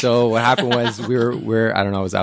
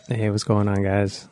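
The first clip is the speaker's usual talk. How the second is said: late-night R and B radio host; sexy phone voice; 3 dB quieter than usual. Acted. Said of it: "Why are you putting on your, like, sexy voice".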